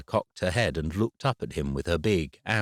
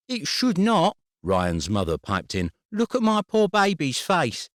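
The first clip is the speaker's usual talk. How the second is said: high loud indignant mother voice; high-voiced indignant mum; shrill protective mother; 10 semitones higher, 4 dB louder than usual. A narrator's reading. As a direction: pipe in defending her baby. Ryan's mother piped in.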